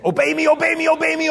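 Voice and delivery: high, loud bratty chant; mock demanding kid. Pastor mimics a tantrum child demanding obedience, high bratty chant. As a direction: whine it like a spoiled child. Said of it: "He's just saying".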